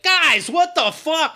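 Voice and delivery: high, slow, drawn-out indignation; mock tough guy. Tough guys turning on the nerdy ones, mock indignant. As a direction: imitate a put-out tough guy, stretching the words. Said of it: "so the tough guys are like".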